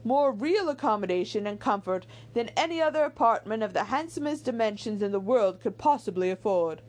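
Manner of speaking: animated, measured novel reading; lilting storybook delivery; story narration. A narrator's reading. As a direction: read it aloud like an audiobook narrator. Reads the novel aloud.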